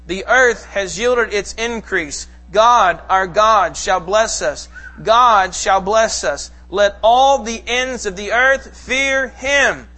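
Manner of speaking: slow, measured public psalm reading; slow congregational reading; slow scripture reading. Acted. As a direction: read it aloud with the congregation, steady and unhurried. Congregation reads psalm aloud.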